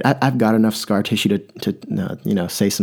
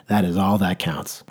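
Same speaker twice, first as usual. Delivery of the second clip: slower, each word given weight; slow emphatic. Shown as a demonstration. Speaker repeating his motto, slow and emphatic. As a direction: spell out "That is all that counts" slowly.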